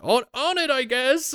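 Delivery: very high, hesitant mock-guard voice; intimidated guard. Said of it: "they're more almost intimidated".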